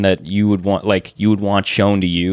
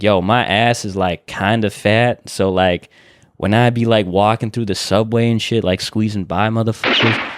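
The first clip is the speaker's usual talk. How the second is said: imitated Black American accent. Comic retelling a student's stand-up premise, imitated Black American accent. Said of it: "Immediate black accent".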